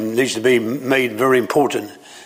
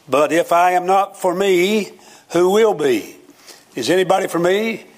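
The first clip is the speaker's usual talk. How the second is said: a hint of a self-centred whine; mock selfish plea; 6 semitones higher than usual. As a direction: ask it like the world owes you. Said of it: "Somebody says about their self".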